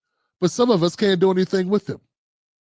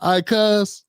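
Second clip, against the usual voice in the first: Baltimore accent; 3 semitones higher, slower than usual. Shown as a demonstration. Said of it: "you Bammers".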